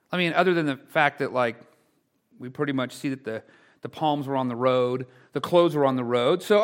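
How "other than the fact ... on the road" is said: usual speaking voice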